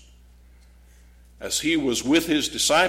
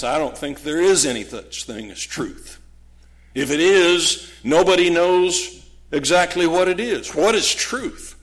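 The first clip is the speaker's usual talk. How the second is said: scornful rhetorical question, building louder and higher; sarcastic; 4 semitones higher, 3 dB louder than usual. Acted. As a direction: dismiss the whole idea with mounting sarcasm. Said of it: "the sarcasm and the snort".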